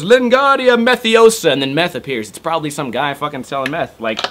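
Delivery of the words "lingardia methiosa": high, slow, grand incantation; hammed-up sorcerer chant; mock magic spell. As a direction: cast a fake wizard spell with a flourish. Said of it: "and no one goes".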